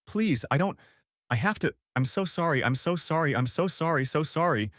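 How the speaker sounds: high, tearful, repeated pleading sorry; wife sobbing apologies on the floor; sobbing apology. Acted. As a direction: beg through sobs. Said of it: "then started sobbing".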